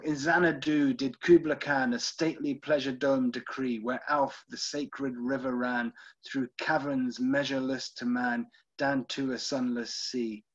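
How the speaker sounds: measured verse reading, slowing at line ends; poem recitation. Acted. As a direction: recite it steadily, easing down to the close. Recites opening of Kubla Khan.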